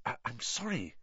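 hushed, stammered apology; whispered. A narrator's reading. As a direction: apologise softly under the breath. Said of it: "he whispered".

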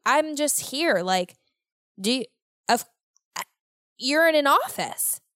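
mock coworker. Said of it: "because they're like".

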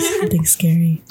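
spooky breathy whisper. Acted. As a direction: breathe it out eerily. Echoing a spooky story offer.

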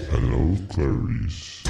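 slow, menacing cannibal drawl; Hannibal Lecter. Acted. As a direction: purr it slowly and menacingly. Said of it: "Hannibal Lecter quote".

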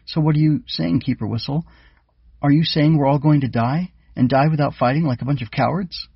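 high squeaky voice. A narrator's reading. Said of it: "Splash squeaked".

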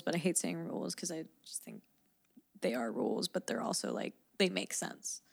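drowsy, half-awake voice; sleepy, slurring a little; groggy and tired. Real, not acted. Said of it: "I'm so groggy and tired".

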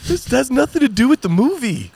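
high, loud comic protest; exasperated mock outburst. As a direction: shout it in a squeaky, put-upon voice. Acting exasperated reaction to film dialogue.

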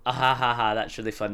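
put-on ha-ha, then own-voice reply; forced polite laugh. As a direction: feign amusement with a spoken laugh. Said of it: "And you'd be like".

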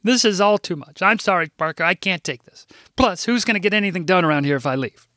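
a mild hint of a protesting secretary; lightly played overwhelmed office manager; flustered older secretary. Narrator voices Rose.

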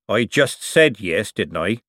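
lightly voiced old craftsman, rough and sly; a canny old seamer talking shop; old forger. Old forger lecturing the young buyer, sly.

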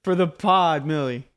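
loud, high cheer; rally her on loudly; shouting encouragement. Real, not acted. Egging Millie on climbing.

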